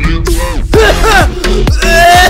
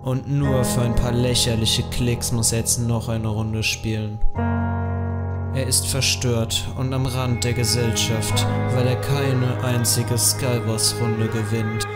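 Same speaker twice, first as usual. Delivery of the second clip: low, slow nature documentary voice; documentary narrator; 6 semitones lower, slower than usual. Acted. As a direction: narrate like a wildlife film.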